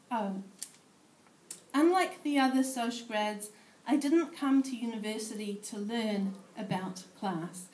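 measured spoken-word poetry reading; poem reading. Acted. Poet reading her piece to a room of sociologists, measured recital. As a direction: read it as a performed poem.

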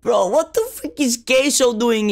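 high-pitched, laughing outburst; laughing disbelief. Real, not acted. Player finds Queso in the game, laughing disbelief. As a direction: burst out laughing in baffled surprise. Laughing at character's sudden appearance.

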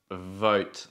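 "vote" with a v, teeth on the lip; "vote" starts with a clear v. Shown as a demonstration. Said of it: "o boat".

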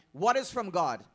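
loud, leaning on is; loud question. Real, not acted. Preacher quizzing the congregation, loud and pointed. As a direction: call it out to the room.

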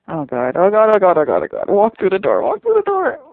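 loud pleading, shooting up to a high yell; frantic shouting. Real, not acted. Viewer urging Alice through the door, frantic shouting. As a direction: build from urgent oh-gods to a screamed command.

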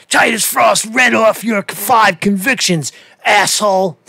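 high, sing-song mock voice of the accuser; sneering sing-song parody of an angry emailer; mocking Schoenberger impression. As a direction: mimic him as a whiny, taunting caller. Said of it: "he certainly sounds like that to me".

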